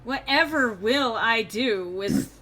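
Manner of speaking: hammed-up, sarcastic lament; mock dismay. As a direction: play helpless despair over a trifling loss. Mock lament over one lost coin.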